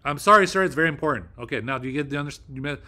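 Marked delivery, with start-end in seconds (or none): 0.0-1.3 loud, forceful American accent; commanding American delivery, raised and firm; serious American voice. Shown as a demonstration. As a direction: hit it hard in a stern American voice. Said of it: "serious American voice".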